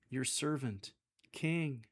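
can't believe he's the king; disbelieving lilt. Shown as a demonstration. Solomon to God, disbelieving upward lilt on king. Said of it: "upward lilt with a disbelieving tone".

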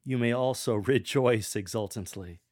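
You may also rejoice exultantly, said with a broad laugh; smiling broadly. Shown as a demonstration. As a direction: smile through rejoice exultantly. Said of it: "smile broadly when you say".

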